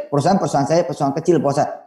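fast, mumbled self-belittling; fast self-deprecating mumble; rushed humble client. Retold or imitated. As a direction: rattle off the modest line quickly. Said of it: "Sama siapa lagi?".

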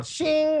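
high, light "shing" of a blade; sword-drawing sound effect. Retold or imitated. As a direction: voice a sword sliding out. Imitates broom drawn like sword.

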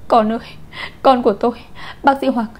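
narrator's mother calling out in anguish; tearful screaming. A narrator's reading. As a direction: cry out desperately for the doctor. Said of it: "nước mắt giàn giụa gào thét".

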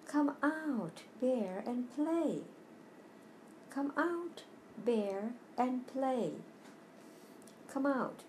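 high, sing-song call to come out and play; friends calling. Acted. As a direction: call up to the cave like eager friends.

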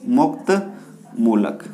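each word drawn out slowly and low for notes; teacher spelling out मुक्त मूलक slowly for the class; slow dictation. Shown as a demonstration. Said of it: "क्या बोलते हैं इसको?".

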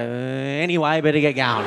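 barge in with a loud, hurried exit line; mock loud cutting-in; loud interjection. Comic escaping a non-stop talker, loud interjection. Barging into a conversational gap.

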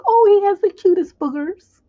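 high, loud mock swoon; swooning lover. Mocking a lovestruck girl, swooning high and loud. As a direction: gush like you're blinded by love.

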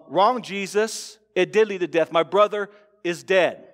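curt, firmer protest; a half-acted snap back; mock angry retort. Martha correcting Jesus, mildly indignant. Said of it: "Martha is angry with Jesus".

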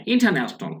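"ইন্টারন্যাশনাল" with the R left silent; silent R pronunciation. Shown as a demonstration. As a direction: say "ইন্টারন্যাশনাল" as in-ta-nash-nal, R dropped. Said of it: "আর এই উচ্চারণটা হবে না".

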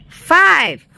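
loud, high launch count, each number separate; countdown. A narrator's reading. Reader launches Wolf's rocket, loud countdown. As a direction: punch out each number like mission control.

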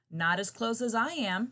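loud indignant protest; protesting earthworm. Acted. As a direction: protest it like a little worm. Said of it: "protested the earthworm".

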